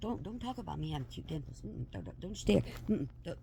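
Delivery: low, soft stern warning; hushed scolding. Retold or imitated. Mom quietly telling friend not to mention dimples. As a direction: warn him off in a low hush.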